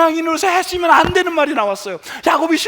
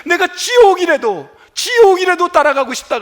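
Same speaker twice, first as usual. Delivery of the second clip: mock grieving father's outburst, louder; upset outcry; 5 semitones higher, 5 dB louder than usual. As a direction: cry out Jacob's grief. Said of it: "얼마나 속상하든지".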